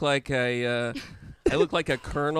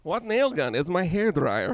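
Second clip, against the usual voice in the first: put-on Russian accent; 3 semitones higher than usual. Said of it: "very Russian".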